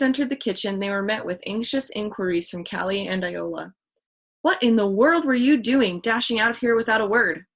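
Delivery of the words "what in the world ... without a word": louder, higher worried question; a touch of fear; shaking voice. Acted. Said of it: "Callie asked in a shaking voice".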